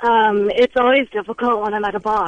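pushing her voice down low on request; talking low. Shown as a demonstration. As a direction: drop the voice low like a man. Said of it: "Try and talk low".

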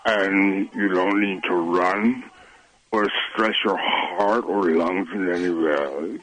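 slow, soothing yoga teacher pace; unhurried, lulling delivery; slow and relaxing. Real, not acted. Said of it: "I'm starting to doze off listening to him".

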